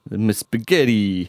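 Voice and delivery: slow, lightly Italian-flavoured; a half-hearted Italian accent; mock Italian. Host trying an Italian accent on co-host. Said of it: "That was my Italian".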